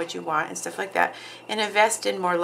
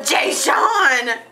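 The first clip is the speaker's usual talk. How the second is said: calling out; 9 semitones higher, 5 dB louder than usual. Real, not acted. Calling out to the baby.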